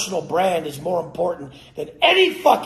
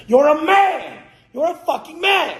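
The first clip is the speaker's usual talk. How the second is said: much higher, loud insistence; emphatic shout; 12 semitones higher, 4 dB louder than usual. Real, not acted. Telling coaches they are men with a high emphatic shout. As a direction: hammer it home.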